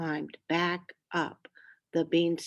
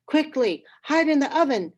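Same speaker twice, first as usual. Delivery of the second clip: urgent hiss; 7 semitones higher, 6 dB louder, faster than usual. A narrator's reading. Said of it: "said the woman".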